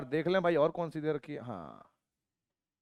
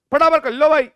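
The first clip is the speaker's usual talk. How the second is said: loud, higher push to hurry; coach-like rallying call; urging call; 7 semitones higher, 7 dB louder than usual. Real, not acted. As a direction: hurry them along. Teacher urging class to hurry.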